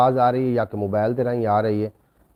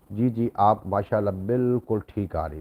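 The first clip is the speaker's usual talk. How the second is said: normal talking voice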